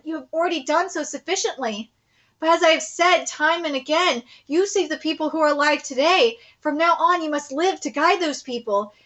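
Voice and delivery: lightly voiced earnest general. General urges Nay-sama to live, lightly voiced and earnest. Reads the general's speech aloud.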